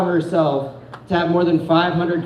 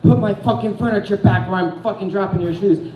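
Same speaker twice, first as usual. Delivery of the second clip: angry threat. Retold or imitated. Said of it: "And she's like".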